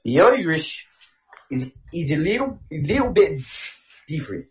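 put-on lilting Irish; careful attempt at Irish vowels; Irish accent. Shown as a demonstration. Showing co-host how Irish differs, Irish accent. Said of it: "Can you do an Irish voice?".

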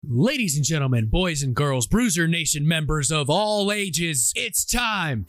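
booming ringmaster intro, drawn out. Acted. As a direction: announce it like a circus ringmaster. Show intro announcement.

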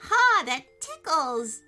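high, loud giggling voice. Acted. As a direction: giggle like a tickled kitten. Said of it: "said the little creature".

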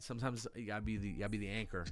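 low, soft quoted wisdom; lightly voiced sage advice; quoting Tap Man. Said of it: "as Tap Man said".

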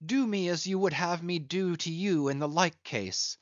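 beg, then call the men excitedly; desperate pleading. Acted. Stranger begging, then urging men.

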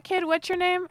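high, friendly question; talking to a child. Acted. Player asking a scared kid's name, child-directed. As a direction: pitch it up for a little one.

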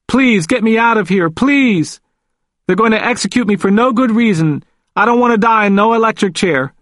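high, desperate plea, acted; tearful pleading. A narrator's reading. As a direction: beg for your life as if crying. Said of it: "Then he started crying".

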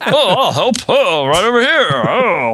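put-on a cafe strongman in a jokey Australian accent, excited; mock Australian accent. Podcast host retelling the burger story in mock Australian accent. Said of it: "That's my Australian burly man accent".

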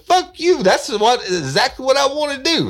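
loud, brash retort; crude caller. Retold or imitated. Prank caller shouting back at the woman, loud and crude. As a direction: bark it back at her.

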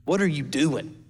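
low, mildly annoyed mock reprimand. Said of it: "and Jesus is annoyed. He's like".

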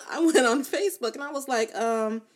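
laughing through hiccups; hiccuping while talking. Real, not acted. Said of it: "I have the hiccups".

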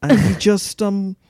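badly imitated British storyteller; halting British accent with pauses. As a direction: tell it in a put-on British voice. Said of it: "That was my worst British accent".

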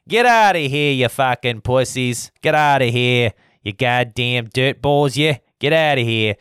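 put-on heckler yelling them out; angry shout. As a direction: chase them off in a put-on rant. Mock shouting at celebrities to leave.

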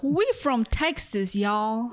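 amateur stab at a Texan twang; hammed-up Texas accent. Shown as a demonstration. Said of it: "let me do one".

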